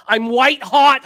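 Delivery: first, loud take of the brag; hyped boast. Real, not acted. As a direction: crank it up for the first time. Brags, then repeats as shout.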